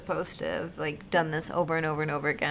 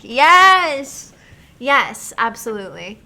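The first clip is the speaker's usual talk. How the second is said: very high, loud cheer; thrilled yes; 6 semitones higher, 14 dB louder, much slower than usual. Real, not acted. Streamer cheering about romancing Morag, loud thrilled yes. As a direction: cheer for the next game.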